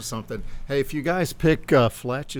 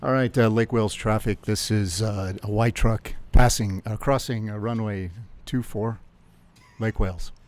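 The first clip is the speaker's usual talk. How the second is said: pilot radio voice. Pretend. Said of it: "pilot voice me, Mike".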